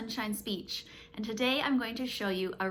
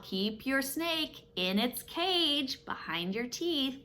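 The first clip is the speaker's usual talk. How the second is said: slow teaching voice; 5 semitones higher, slower than usual. Shown as a demonstration. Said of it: "if you're trying to teach your child".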